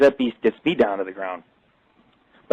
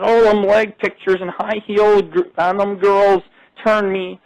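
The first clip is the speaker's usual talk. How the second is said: high mocking imitation of her; mocking the rude woman who wrote the ad; 6 semitones higher than usual. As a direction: mimic her snooty complaint, pitched high. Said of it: "She said".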